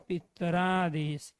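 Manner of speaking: पितरादेश drawn out syllable by syllable, slow; slowly spelled out. Shown as a demonstration. Teacher to students, says पितरादेश slowly so every part is heard. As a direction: stretch out पितरादेश slowly for the class. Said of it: "तो ये शब्द क्या बन गया".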